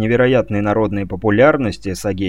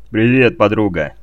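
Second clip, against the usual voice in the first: cheerful greeting; 3 semitones lower, 3 dB louder than usual. Acted. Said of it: "Не менее радостно приветствовал её лось".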